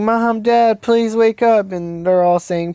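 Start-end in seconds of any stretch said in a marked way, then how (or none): 0.0-1.7 slightly raised, pleading voice; lightly acted tearful begging; mild imitated crying. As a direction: plead gently as a tearful child, understated. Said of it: "and he's crying".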